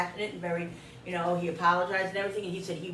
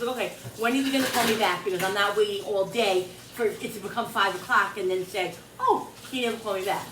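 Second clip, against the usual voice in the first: irritated retold demand; 2 semitones higher, 5 dB louder than usual. Retelling her phone demand for a callback, irritated and insistent. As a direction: re-enact pressing someone impatiently, fast and loud.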